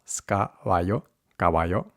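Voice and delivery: Scaballo, then caballo with the same muted k; unaspirated k in Scaballo and caballo; S practice. Shown as a demonstration. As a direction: drop the s, keep caballo puffless. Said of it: "put an S at the beginning".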